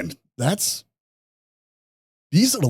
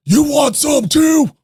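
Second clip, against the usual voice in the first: put-on high, loud, slow threat shouted at a kid; menacing challenge; 8 dB louder, slower than usual. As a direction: bark it like a thug squaring up. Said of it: "he turns to me and goes".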